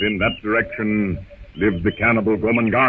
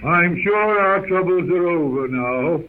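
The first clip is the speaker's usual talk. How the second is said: put-on relieved old professor; 9 semitones higher, slower than usual. Porter relieved at rescue.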